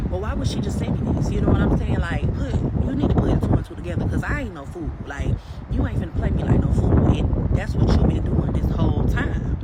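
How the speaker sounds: loud, forceful telling-off; angry retold comeback. Storyteller replaying her phone argument with the boyfriend, loud and fed up.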